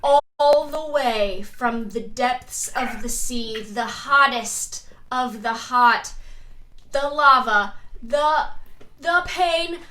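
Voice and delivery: loud, slow ring announcer build; wrestling announcer. Acted. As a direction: boom out the fighter intro, rising to a sung yell. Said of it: "Wade is doing his intro".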